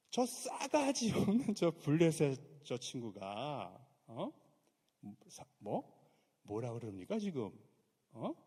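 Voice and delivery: put-on slow, loud, outraged young man; indignant David. David fuming at the Philistine, slow and loud. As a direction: spit out the insult slowly and loudly. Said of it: "요즘 말로 좀 제가 할게요".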